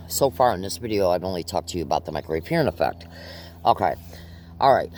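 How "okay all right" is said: winded, short breaths between words; out of breath, pausing to recover. Real, not acted. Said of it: "let me catch my breath for a second here".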